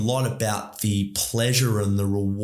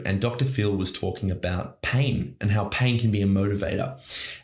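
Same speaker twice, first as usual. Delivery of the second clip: ordinary talk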